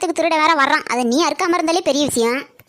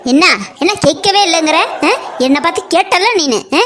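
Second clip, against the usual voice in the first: loud outraged yell, much louder; furious shouting; 4 dB louder than usual. Acted. Woman yelling at the polling officer, furious. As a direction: scream at him in fury.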